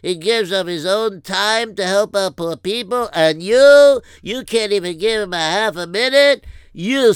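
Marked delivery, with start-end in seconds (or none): 3.1-7.1 scolding outburst. Acted. Scolding him for slamming door.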